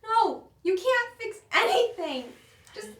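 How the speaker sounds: loud, high furious command; angry shout. Acted. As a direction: shout it, rising anger. Furious, pointing at room.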